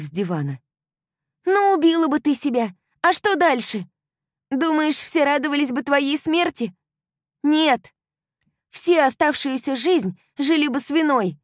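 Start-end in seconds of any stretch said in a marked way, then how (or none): 1.5-11.4 high, loud furious rant; outraged young woman yelling; angry girlfriend. A narrator's reading. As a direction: shout sense into her friend.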